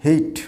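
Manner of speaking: hate as "heyt", with a glide; corrected pronunciation. Shown as a demonstration. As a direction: make hate rhyme with "late". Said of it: "উচ্চারণটা হবে". (সঠিক hate, "হেইট")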